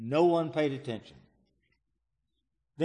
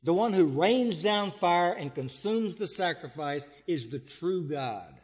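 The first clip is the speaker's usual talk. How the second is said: ordinary delivery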